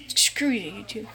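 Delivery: hushed, breathy swipe at YouTube; a sneaky whispered insult; whispered curse. Real, not acted. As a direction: say it under your breath. Whispered curse after apologizing.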